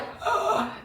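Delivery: a quick mock gasp of pain; retold sharp gasp. Retelling a punch to the stomach, a short mock gasp. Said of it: "and I was like".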